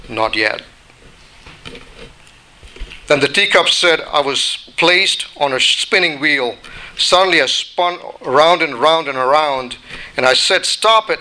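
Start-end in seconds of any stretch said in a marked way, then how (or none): 0.1-0.6 potter's calm refusal. Acted. Potter calmly refusing the teacup. 10.6-11.2 sudden higher pleading cry; teacup's cry. Acted. Spinning teacup begs the potter to stop, higher cry.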